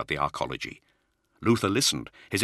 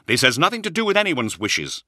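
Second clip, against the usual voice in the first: sharp, raised retort; snapping; 9 semitones higher, 5 dB louder than usual. Acted. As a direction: snap back, higher and louder. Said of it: "he snapped".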